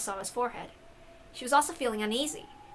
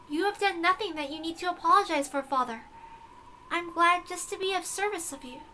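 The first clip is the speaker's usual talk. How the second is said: lightly formal, softer and higher; stiff formal servant; 5 semitones higher, 3 dB quieter than usual. Acted. Beato to her father Balor, lightly stiff and formal. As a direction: speak like a dutiful servant. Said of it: "stop talking like that".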